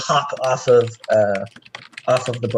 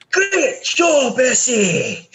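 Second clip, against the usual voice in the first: much higher, hammed-up booming cheer; booming god voice; 11 semitones higher, much slower than usual. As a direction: boom it out like a proud deity. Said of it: "this booming voice".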